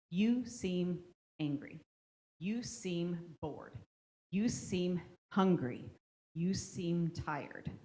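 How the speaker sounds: slow, unhurried "you seem" guesses; gentle guessing statements. Shown as a demonstration. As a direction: offer each guess slowly and calmly. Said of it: "You're gonna guess".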